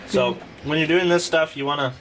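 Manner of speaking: talking with food in mouth; mumbled through a bite; chewing while talking. Real, not acted. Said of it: "Sorry, I'm chewing".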